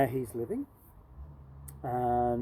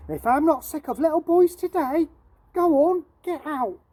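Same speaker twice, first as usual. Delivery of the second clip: put-on loud, higher shout at a boy; 12 semitones higher, 8 dB louder than usual. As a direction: bark him out of the shop. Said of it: "she shouted to him".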